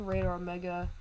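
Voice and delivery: glitchy warbling mic; wobbly warbling call audio. Real, not acted. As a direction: voice breaking up over a bad call connection. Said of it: "your mic is glitching out".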